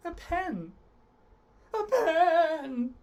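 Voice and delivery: hammed-up high wail of sorrow; mock sadness. Shown as a demonstration. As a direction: play it as tragic over a pen. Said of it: "really sad about this pen".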